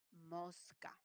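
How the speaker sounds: mosca with a clear s; full s. Shown as a demonstration. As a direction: say mosca with a crisp s. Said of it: "quiero que me escuches en fonético".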